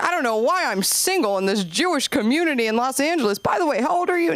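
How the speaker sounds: hint of a dentist. Dentist fishing for a date with a patient, lightly voiced. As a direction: slide into a sly pickup. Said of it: "He's like".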